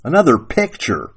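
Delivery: mildly acted wifely growl. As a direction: grumble it as the displeased wife. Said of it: "Sarah Ruth growled".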